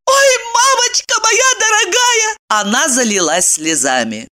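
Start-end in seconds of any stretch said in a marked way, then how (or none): 0.1-2.4 high anguished wail; tearful high lament; wailing cry. A narrator's reading. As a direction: cry out in despair. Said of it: "Крикнув".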